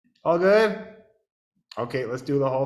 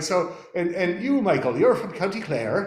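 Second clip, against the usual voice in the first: higher, louder host impression; quizzing radio host; 7 semitones higher, 7 dB louder than usual. Radio host asks band member his origins, higher louder imitation. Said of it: "she's like".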